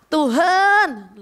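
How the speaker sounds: mild re-enacted cry to God. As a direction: call out in prayer, holding the word. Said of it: "saya teriak".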